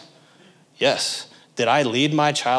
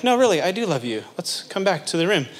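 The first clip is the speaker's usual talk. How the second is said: mildly gentle parent, pitched higher; gentle reassurance; 5 semitones higher than usual. Acted. Parent getting a child back to the room, gently. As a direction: coax with higher-pitched, lightly acted reassurance. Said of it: "so gently you're like".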